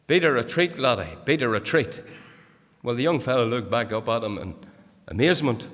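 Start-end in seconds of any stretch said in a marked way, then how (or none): 0.1-2.0 general's command. Retold or imitated. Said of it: "he turned to this little drummer boy and he said".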